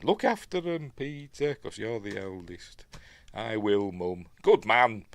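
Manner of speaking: lightly put-on posh English accent; a touch of mock posh English; frightfully posh English. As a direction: mimic a frightfully posh wartime family. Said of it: "they're frightfully posh".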